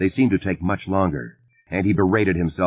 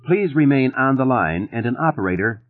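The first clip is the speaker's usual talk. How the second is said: robot voice; 6 semitones higher than usual. A narrator's reading. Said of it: "the robot voice was continuing".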